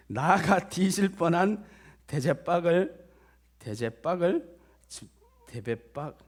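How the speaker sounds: put-on Jeolla recitation; imitated Jeolla accent; Jeolla dialect. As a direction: work through it in earthy Jeolla dialect. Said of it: "전라도 버전이라서 다소 과격한 표현들이".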